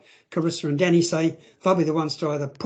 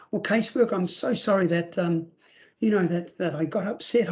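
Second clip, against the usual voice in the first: mock apologetic child. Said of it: "I act this out".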